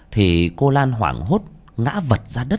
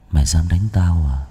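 low menacing voice from beyond; low possessed threat, stress on đánh; gloomy otherworldly voice; 6 semitones lower than usual. Acted. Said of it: "giọng âm u, như từ địa cõi vọng về".

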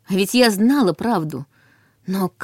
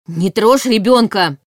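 slow, loud bark at the villain; 5 dB louder, slower than usual. A narrator's reading. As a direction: snap it out slowly and hard. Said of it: "рявкнула я".

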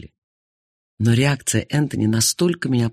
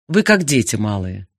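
gentle. Acted. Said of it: "мягко заметила она".

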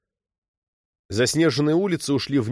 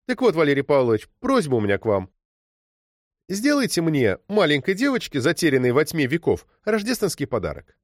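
put-on higher, sweet little-girl plea; girl's request; 4 semitones higher than usual. Girl asking Valery for a Christmas present, sweet and high. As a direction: coax him like a lost child.

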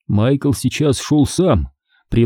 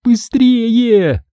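high-pitched hurry-up call; urging; 11 semitones higher than usual. A narrator's reading. Sherry hurrying Greg to the cellar door, urging. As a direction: urge them on at a high pitch. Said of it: "торопила Шерри".

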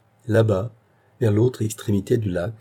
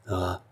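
sigh; 3 semitones lower, 8 dB quieter than usual. A narrator's reading. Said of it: "soupira Jeanne".

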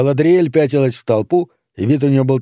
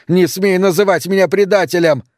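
shout; 6 semitones higher than usual. Acted. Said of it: "закричал Сэм".

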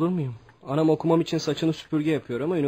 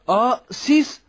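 surprised; 6 semitones higher, 5 dB louder, slower than usual. Acted. Boy opens door to unexpected visitor.

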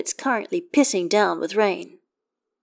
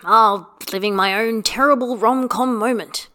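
breezy, a bit louder; light levity; 4 semitones higher, 5 dB louder than usual. A narrator's reading. Gale jokes with Astarion in the rain, breezy levity. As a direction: toss it off lightly. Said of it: "with unexpected levity".

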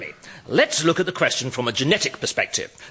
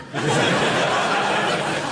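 laugh. Real, not acted. Laughs at own joke.

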